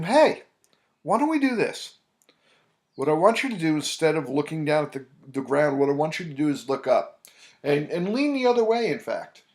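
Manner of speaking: lifted, upbeat coaching voice to a client; bright push to look up. Retold or imitated. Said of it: "And I said to him".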